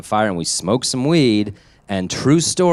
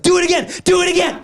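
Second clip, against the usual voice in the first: put-on excited kid. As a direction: squeal it like a thrilled child. Child begging dad at campfire.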